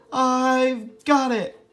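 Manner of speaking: a touch of a mouse voice, high and slow; excited little mouse. Acted. Mouse hitting on his idea, lightly voiced mouse. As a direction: squeak it out with a new idea. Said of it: "he said".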